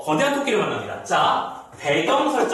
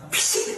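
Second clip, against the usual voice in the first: mock scoff; slower than usual. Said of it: "이러면서".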